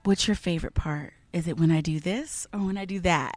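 soft breathy voice; breathy whisper. Shown as a demonstration. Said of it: "your voice goes down into a whisper".

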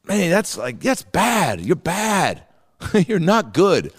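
high, laughing blunt judge; Randy. Retold or imitated. Judge telling a contestant they are bad, high mock dismay. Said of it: "Randy was just like".

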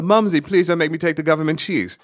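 put-on high British accent talking to mother; prim British son pleading. British-accented son begging his mother about cheese. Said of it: "I used to say to my mother".

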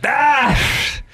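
ordinary talk, nothing marked

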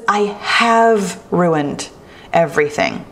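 I have ruined drawn out slowly; slow, deliberate. Shown as a demonstration. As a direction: spell out I have ruined, word by word. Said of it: "Listen to that thought".

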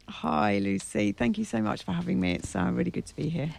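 talking through a croaky throat. Real, not acted. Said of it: "have you croaky voice and all".

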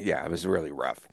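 unvoiced whispered aside. Real, not acted. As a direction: drop to a breathy whisper, rough memory. Whispered aside about rough time.

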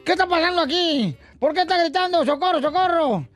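high, lightly acted cop questioning; mild mock police interrogation; questioning policeman. Policeman questions the shouting homeowner.

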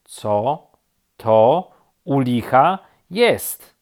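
slow, loud, word-by-word question; baffled indignation. A narrator's reading. Rabbit spots something above, baffled and emphatic. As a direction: separate each word, mounting in disbelief.

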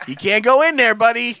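a hint of a Brooklyn tough guy. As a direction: toss it off like a street guy. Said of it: "That's how it sounded".

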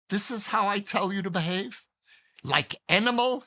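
put-on Hungarian accent. Angry father rebukes son for pushing kids, Hungarian accent. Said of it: "in his Hungarian accent".

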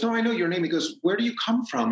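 lightly voiced Sondheim asking, pressing; imitated eager questions.

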